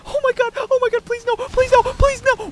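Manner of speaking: high, loud, desperate pleading; anguished denial. Real, not acted. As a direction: beg the game not to. Dying in game, screaming.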